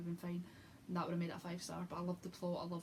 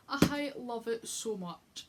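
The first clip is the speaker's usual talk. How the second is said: slow and louder, drawn out; gushing; 3 semitones higher, 7 dB louder, much slower than usual. Real, not acted. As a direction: savour every word of love. Gushing about book ending.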